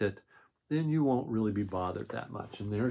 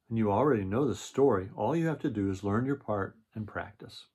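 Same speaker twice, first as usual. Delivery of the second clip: storybook read-aloud voice; reading to children. A narrator's reading. Reads the picture book aloud.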